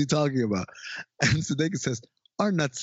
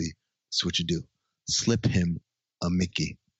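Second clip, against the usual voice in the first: mock-ominous, much lower and slower delivery; 8 semitones lower than usual. Retelling David's line to Bateman, as a mock-ominous line. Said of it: "he says very kind of ominously".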